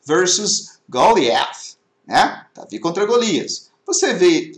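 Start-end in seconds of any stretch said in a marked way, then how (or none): 0.1-1.8 very slow, drawn out "versus Goliath"; slow reading aloud. Shown as a demonstration. Teacher reading names to the class, very slow. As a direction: stretch "versus Goliath" out slowly. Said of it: "Quais são os dois personagens?".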